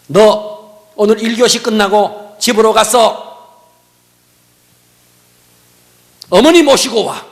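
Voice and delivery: slow, loud stern command; stern teacher's order. Retold or imitated. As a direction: bark the order at the pupil. Teacher orders the mother called. (느리고 큰 소리로 꾸짖는 선생님)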